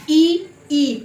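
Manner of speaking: ई stretched as a long ee with the tongue spread at the palate; drawn-out ee demo. Shown as a demonstration. Teacher to students, demonstrating the palatal ee. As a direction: say ई, ई slowly so the palate is felt. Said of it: "पता चल रहा है ना".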